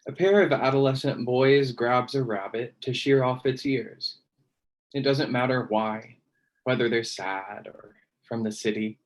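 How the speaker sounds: measured, deliberate poem recital; poetry reading. Acted. Poet reading own poem to online audience, measured recital. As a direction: recite it line by line, pausing between phrases.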